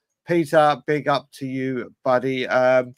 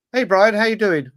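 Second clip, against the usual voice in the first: higher-pitched imitation of an Australian accent; 6 semitones higher, 4 dB louder than usual. Australian fan greeting the host at half time, imitated Australian accent. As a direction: put on a light Australian greeting. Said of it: "in an Australian accent".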